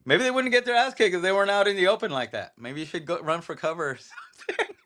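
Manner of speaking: high, fast, snide mock comment; mocking commenter. Laughing while imitating a snide online commenter, fast and high. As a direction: rattle it off like a smug know-it-all, breaking into a laugh. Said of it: "they're like".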